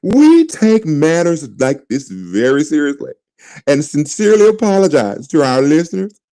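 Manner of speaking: lightly put-on formal press-release voice; mock corporate voice. Host reading the team's apology in a mock white voice. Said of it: "I'm gonna read it like a white person would read this".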